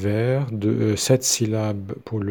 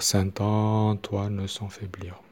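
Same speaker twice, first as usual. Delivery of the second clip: "Antoine" said plainly, no lengthened O; slow and even, no stretching; unstretched slow demo; 3 dB quieter, slower than usual. Shown as a demonstration. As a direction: keep every syllable of "Antoine" short. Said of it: "pas besoin de prolonger".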